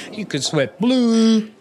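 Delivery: mock ad pitch. Absurd riff on gator sport drink.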